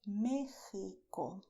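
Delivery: Mexico drawn out with throaty h; Spanish x. Shown as a demonstration. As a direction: say Mexico slowly as "MEH-hee-ko". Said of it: "the way I told you".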